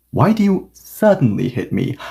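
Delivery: short pause, then lean on "suddenly"; stress on suddenly. Shown as a demonstration. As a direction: make "suddenly" the point of the complaint. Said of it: "now I'm emphasizing suddenly more".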